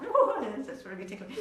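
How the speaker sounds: trying not to laugh. Acted. Moose as spider climbs up him, trying not to laugh. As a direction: squirm through a held-in giggle. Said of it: "Moose is trying not to laugh".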